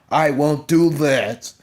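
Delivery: hammed-up tearful refusal; mock breaking down. Imitating Heyman refusing his tribal chief, slow and tearful. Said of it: "he starts breaking down as he says that".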